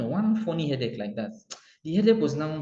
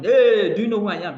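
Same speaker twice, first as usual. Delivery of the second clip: loud, higher bluster; louder, higher pompous shout; mock shout; 6 semitones higher, 9 dB louder than usual. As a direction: bellow it like a self-important big man. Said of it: "You are shouting".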